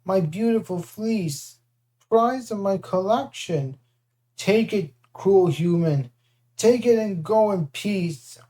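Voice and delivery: slow, sniffling monster giving in; a hint of a sulky giant; lightly voiced giant. Cyclops pretends to surrender his fleece, sniffling.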